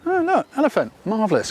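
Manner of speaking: high-pitched pleased discovery, settling down; mock delight. Practised photographer spotting an elephant on safari, mock delight. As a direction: act happily surprised, lightly hammed up.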